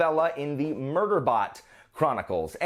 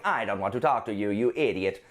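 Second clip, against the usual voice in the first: Murderbot voice; 4 semitones lower than usual. Retold or imitated. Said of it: "that's how I picture Murderbot talking".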